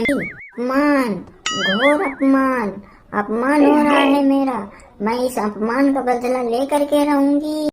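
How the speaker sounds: theatrical soap-opera outrage; melodramatic wounded pride. Acted. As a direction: drag out each word as if gravely insulted. Melodramatic insult lament.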